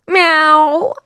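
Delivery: high, rising mock meow; imitated cat meow. Shown as a demonstration. Radio host miming a cat for listeners, high meow. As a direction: meow like a cat asking a question.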